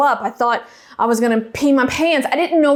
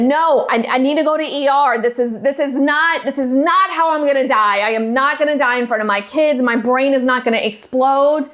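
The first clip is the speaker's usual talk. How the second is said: higher-pitched, hurried mock pleading, not shouted; retold panicked protest; 3 semitones higher than usual. Wife insisting to husband on the ER, mildly panicked. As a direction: replay a desperate refusal without yelling. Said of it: "because I was screaming, I was crying".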